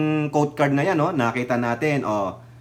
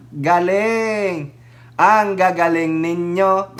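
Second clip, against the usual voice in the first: sarcastic praise; much slower than usual. Acted.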